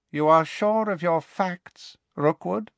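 high, slow, icy menace; cold, cruel voice. A narrator's reading. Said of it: "in that cold, cruel voice".

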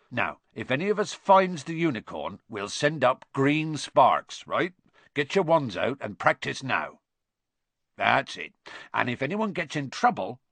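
lightly voiced rustic gamekeeper; brief the party firmly in country speech; Hagrid giving instructions. Hagrid gives the children orders.

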